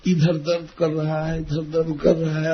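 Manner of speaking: soft mock complaint of pain; understated put-on suffering; feigned aches. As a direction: list each ache quietly, for mother's sympathy. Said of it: "खूब अपने दुख का वर्णन किए".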